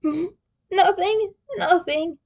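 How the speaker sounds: high, giggling through the word; laughing. Acted. Leo brushing off Krang while giggling.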